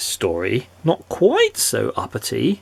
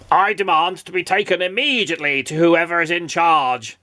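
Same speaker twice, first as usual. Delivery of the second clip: higher, indignant, pompous demand; angry; 5 semitones higher than usual. A narrator's reading. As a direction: insist angrily on being obeyed. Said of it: "said Mister Uppity angrily".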